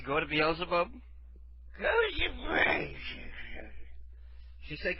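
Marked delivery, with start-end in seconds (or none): 1.8-2.9 high, slow slurred mumble; half-snore mimicry. Imitating the sleepy woman who was called, trailing into a snore. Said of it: "trailed off into a half snore".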